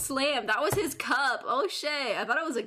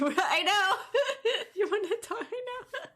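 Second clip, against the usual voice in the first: higher, giggly banter; laughing; 10 semitones higher than usual. Real, not acted. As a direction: talk back through real laughter.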